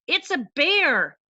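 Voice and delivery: mock yell. Shown as a demonstration. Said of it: "Harley yelled".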